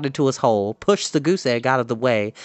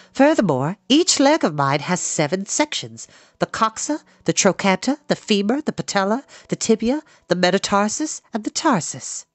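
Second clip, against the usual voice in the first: higher, instructive spider voice; Charlotte; 7 semitones higher than usual. A narrator's reading. Spider teaching the pig her leg anatomy, high precise voice. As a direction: list the parts high and precisely.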